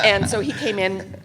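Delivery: usual speaking voice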